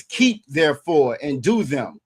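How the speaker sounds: slow, soft reading of the verse; slow scripture read. Shown as a demonstration. Co-host reading Deuteronomy aloud to the host, slow and soft. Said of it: "It says".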